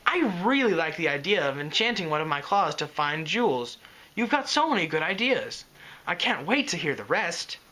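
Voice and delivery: mildly gushing, eager; a light, eager rush of praise; enthusiastic burble. Acted. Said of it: "he burbled enthusiastically".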